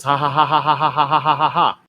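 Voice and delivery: read-out ha ha with a real laugh in it; mock laugh. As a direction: laugh the ha ha mockingly. Reading her mocking ha-ha message.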